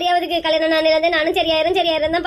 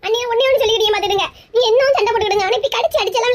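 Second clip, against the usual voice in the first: quick, high, crying; tearful plea; 4 semitones higher than usual. Acted. She pleads tearfully with her brother. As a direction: plead through tears.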